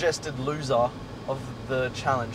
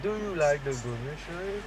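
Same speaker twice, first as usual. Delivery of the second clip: slow, softer put-on voice, drawn out; demonstrating the voice; 6 dB quieter, slower than usual. Shown as a demonstration. Mate insisting on the line, slow put-on voice. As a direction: stretch the question out in a silly voice. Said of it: "you're gonna be like".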